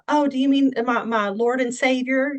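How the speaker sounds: hammed-up Southern, stretching Lord and Savior; mock Southern accent. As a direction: lay on your best fake Southern accent. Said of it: "affected my, uh, best Southern accent".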